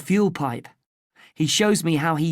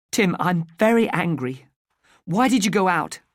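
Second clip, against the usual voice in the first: angry mother; 3 semitones higher, 3 dB louder than usual. Acted. Mother scolds son for going out.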